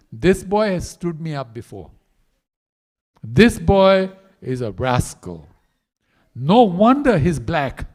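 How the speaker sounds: slow, loud, scolding voice; mock angry Radharani. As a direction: huff it out like a jilted girl, slowly. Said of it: "Now Radharani is getting mad".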